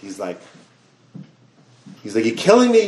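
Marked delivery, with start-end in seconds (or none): 2.2-2.9 mock scream. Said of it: "He starts screaming at the doctor".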